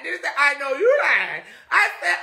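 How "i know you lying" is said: laughing. Retold or imitated. Retelling thumb, laughing.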